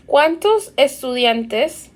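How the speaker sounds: "¿Cuántos estudiantes?" read as a Spanish question with a rise; teacher model. Shown as a demonstration. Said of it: "That means how many students".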